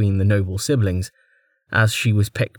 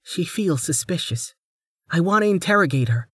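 haughty noblewoman; 8 semitones higher than usual. Acted. Lady Inor voiced.

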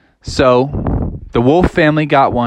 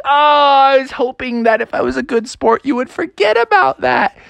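wolf voice; 9 semitones higher than usual. Acted. Wolf caught trying to dodge.

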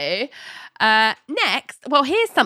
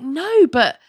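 wistful mock voice; 10 semitones higher than usual. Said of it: "John's like".

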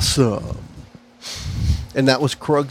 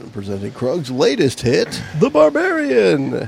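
announcer voice. Pretend. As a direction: announce it like a ring MC. Announcing the monster's hit.

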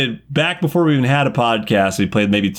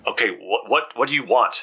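breathless, hushed; gasping between words; out of breath; 3 semitones lower, 4 dB quieter than usual. Acted. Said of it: "She's kind of out of breath".

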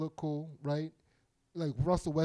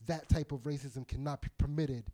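put-on Southern accent; 4 semitones lower than usual. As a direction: play a stern Southern official. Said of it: "That accent is just not allowed".

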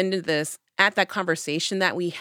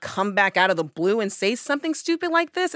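a louder scolding retort; retold angry telling-off; 5 semitones higher, 3 dB louder than usual. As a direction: tell him off hard. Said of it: "I was so angry".

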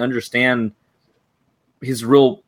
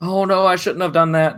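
higher, mocking whiny regret; mock remorse; 7 semitones higher than usual. Podcaster mocking the son's regret, whiny. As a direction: parody the son's fake regret.

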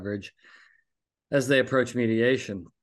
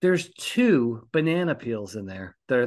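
ordinary talk, nothing marked

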